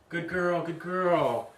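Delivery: drawn-out cooing praise; puppy praise. Shown as a demonstration. Trainer praises the puppy with the toy, cooing praise. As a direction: coo approval at a puppy.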